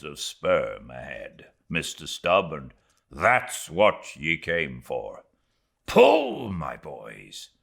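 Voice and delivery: a hint of a stern mate; grim first mate. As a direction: keep it earnest and set. Starbuck urging his crew.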